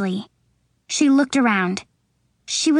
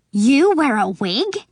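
exclaimed. A narrator's reading. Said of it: "she exclaimed".

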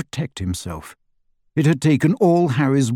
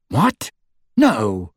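defensive. A narrator's reading. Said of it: "he said defensively".

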